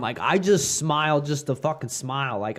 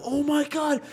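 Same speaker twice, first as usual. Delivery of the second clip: put-on higher, slower Mexican accent; 9 semitones higher, slower than usual. Prison inmates back off, in a slow, high Mexican accent. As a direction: inmates fearfully name-drop in a Mexican accent. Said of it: "you always assume they're Mexican".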